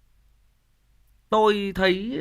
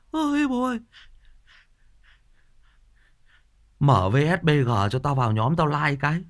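mock crying child; 4 dB louder than usual. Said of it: "nó khóc".

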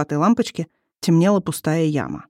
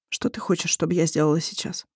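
subdued; 5 dB quieter than usual. A narrator's reading. Wife after apology, subdued.

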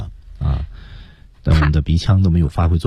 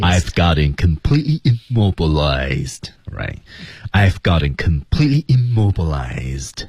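slow, deliberate model boast; every word clear; slower than usual. Shown as a demonstration. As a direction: spell out each word slowly. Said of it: "他把每个字读清楚".

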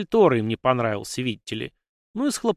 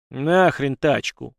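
slow, louder menacing growl; 4 dB louder, much slower than usual. Acted. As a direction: drag it out like a threat. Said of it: "рыкнул Гектор".

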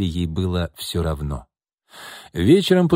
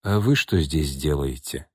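surprised; 5 semitones lower than usual. A narrator's reading. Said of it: "удивился Андрей".

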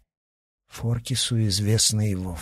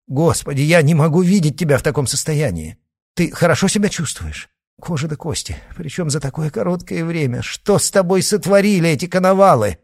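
louder and higher, anguished alarm; distraught; 8 semitones higher, 4 dB louder than usual. A narrator's reading. Father cries out in dismay at his daughter's body. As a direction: plead in horror over her state.

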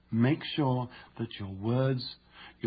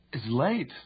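"It's late" lifted in mild surprise; surprised. Shown as a demonstration. Showing surprise in the tone exercise, surprised. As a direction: realize the hour suddenly.

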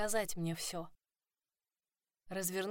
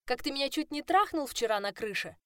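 furious accusation; 7 semitones higher, 4 dB louder than usual. A narrator's reading.

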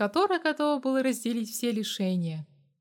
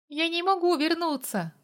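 higher pleading voice; 8 semitones higher than usual. A narrator's reading. Girl begs the mercenary, higher and pleading. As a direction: beg him to let her go. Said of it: "с мольбой произнесла она".

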